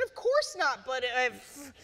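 high, loud flustered protest; exasperated. A narrator's reading. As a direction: burst out in exasperation. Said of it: "threw up his hands in exasperation".

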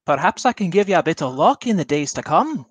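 lightly voiced smooth showman fortune teller. Player voices a fortune teller charming the princess's rival, lightly theatrical. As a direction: pitch your fate like a travelling seer.

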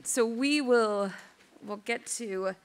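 hoarse with a cold; weak, strained voice from a cold; losing voice from a cold. Real, not acted. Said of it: "don't have much of a voice today".

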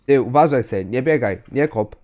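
loud warning shout. Real, not acted. Shouting at kid by bus.

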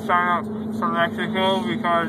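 talking through a swollen jaw; words slurred from dental surgery; numb mouth after wisdom teeth. Real, not acted. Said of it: "I just got my wisdom teeth pulled out".

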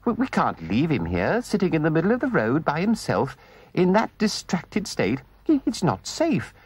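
anxious. Acted. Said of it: "asked the mole anxiously".

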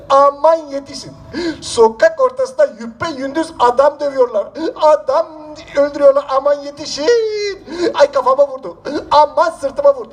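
hammed-up cry for help. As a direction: wail it out like a beaten man calling for help. Wailing for help in street.

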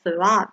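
"slot" ended as sloth, tongue touching the front teeth. Shown as a demonstration. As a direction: say "slot" with a final th. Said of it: "เราจะต้องแตะลิ้นที่ตรง".

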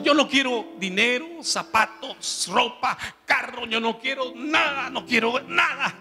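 fervent plea. Retold or imitated.

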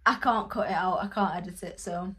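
talking through hiccups; hiccuping between words. Real, not acted. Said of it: "you'll have to excuse my hiccups".

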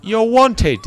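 high, drawn-out put-on protest; mock refusing clerk. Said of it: "He's gonna be like".

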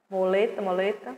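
"Muleta, muleta" dito "moleta" com o, baixinho; pronounced moleta. Shown as a demonstration. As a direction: repete "muleta" soando mo-le-ta, mais suave. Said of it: "mas se pronuncia moleta". ("muleta" falado como "moleta", voz baixa)

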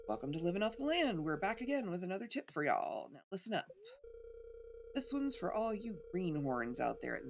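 hearty country show host; folksy TV host. Pretend. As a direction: call out to the greenhorns. Reading TV farm show host.

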